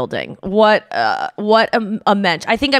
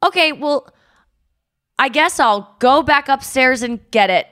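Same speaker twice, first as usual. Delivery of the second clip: forced politeness; 5 semitones higher than usual. Retold or imitated. Forced pleasant reply to clerk.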